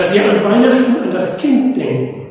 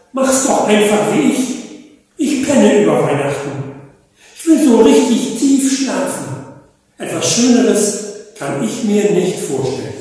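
amused badger; 3 semitones higher than usual. Badger recommends sleeping through Christmas: chuckling. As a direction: laugh it off, easygoing.

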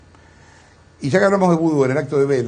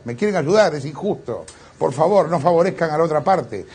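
higher, pleading mock complaint; mock indignant protest; 4 semitones higher than usual. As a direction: protest like an aggrieved victim, hammed-up. Mock protest of man being helped.

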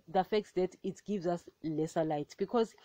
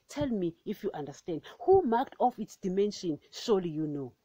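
measured, solemn Bible reading; scripture reading. Acted. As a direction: read it as the word of God. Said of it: "I'll read it again".

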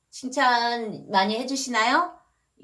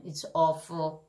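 slow, low and softer; downbeat verdict; 5 semitones lower, 6 dB quieter, much slower than usual. Shown as a demonstration. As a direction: let it drop in disapproval. Negative set against praise.

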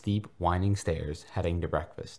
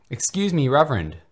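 much higher, much louder shout; calling after him; 9 semitones higher, 10 dB louder than usual. Acted. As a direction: yell to catch him as he leaves. Boy calling after the Reverend.

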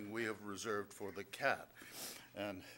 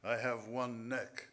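poem reading. Acted. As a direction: read each line like a riddle to savour. Reads his riddle poem.

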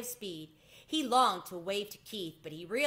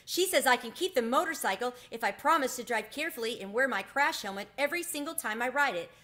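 higher, louder proud announcement; triumphant; 6 semitones higher, 5 dB louder than usual. A narrator's reading. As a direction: burst back with the good news. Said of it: "in triumph".

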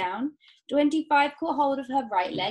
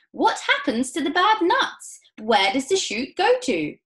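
high, loud, frantic demand; alarmed mother's raised voice; shrieking questions; 9 semitones higher, 9 dB louder than usual. A narrator's reading. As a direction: shriek for answers in a panic. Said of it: "shrieked Missus Salt".

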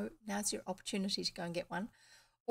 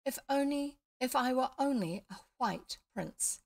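dreamy prince voice; 5 semitones higher, 3 dB louder than usual. Acted. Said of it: "with a dreamy, faraway look".

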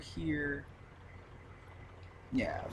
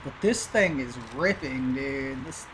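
put-on a light Canadian accent, lower and easy; 4 semitones lower, slower than usual. Gamer shows off his Canadian accent in a skidder, lightly Canadian. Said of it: "That's my, uh, Canadian accent".

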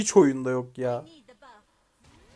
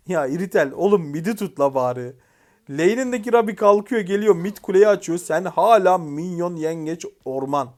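exasperated rant; 3 semitones higher, 6 dB louder than usual. Real, not acted. Gamer complaining about the jungler still farming crabs, exasperated. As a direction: scold an absent-minded teammate, dragging out the last words. Rants at a teammate's play.

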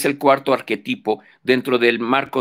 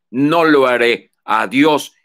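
louder, cutting refusal and goodbye; defiant refusal; 6 dB louder than usual. Acted. Edipo refusing the oracle of Apolo, loud and defiant. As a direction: slam the door on the god, loud and final.

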